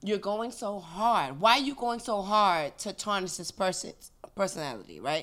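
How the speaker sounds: hiccuping mid-sentence; talking through hiccups. Real, not acted. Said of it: "Excuse my hiccups".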